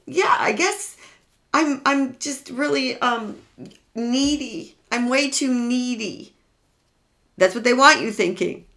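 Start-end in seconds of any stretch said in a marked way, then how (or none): 0.0-6.3 lightly voiced, higher, self-doubting victim; hint of a small, unsure voice giving in; imitating a cowed victim. Victim voiced by therapist, admitting neediness, mildly meek. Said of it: "they have you feeling like".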